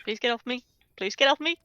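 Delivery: rising from small plea to high, loud yelp; whimpering plea. Acted. Grabbed guard pleads with Gilly, whimpering then yelping. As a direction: beg to be let go, building to a panicked cry. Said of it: "you just hear the guy whimper".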